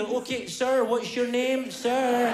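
lightly put-on American accent; American-accented first responder. Stranger checking on a fallen man, slight American accent. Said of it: "having an American accent there".

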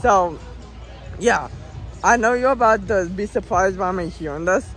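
hoarse after screaming on the ride; rough, worn-out voice from screaming. Real, not acted. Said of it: "I lost my voice 'cause I wrote it two times".

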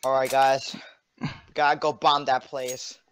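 mock terrorist. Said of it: "why am I talking? I'm sorry. I'm not like that".

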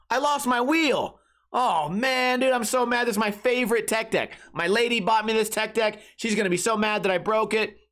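high-pitched mock distress; upset lament. Friend bemoans his broken tech deck to a buddy, upset. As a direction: wail lightly over a broken treasure.

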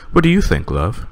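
lightly voiced villager asking; a hint of a cheery townsman; character voice. Villager asking his wife, lightly voiced.

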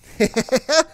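high, loud giggle; laugh. Real, not acted. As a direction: crack up briefly. Laughing after fumbling.

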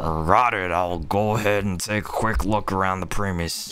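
lightly voiced macho internet-meme character; a hint of a chad voice on a game line; Giga Chad. Streamer reads the officer's line on request, light Giga Chad voice. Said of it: "like a Giga Chad".

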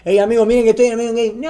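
excusa muy rápida; aviso apurado. Retold or imitated. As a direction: suelta el aviso a toda velocidad. Retells hurried warning to fans. (advertencia dicha a las corridas)

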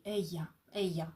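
"Ея" with the Spanish double L said as a y sound. Shown as a demonstration. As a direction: model "Ея" with a soft y glide, no L. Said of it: "читаються як й в іспанській".

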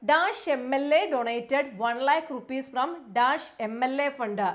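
slow, deliberate reading of the sentence; slow read-aloud. Shown as a demonstration. Teacher reading the question slowly to students. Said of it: "reading exam sentence aloud".

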